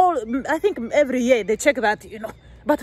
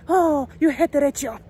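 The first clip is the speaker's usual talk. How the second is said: mock accuser; 3 semitones higher, slower than usual. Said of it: "you say".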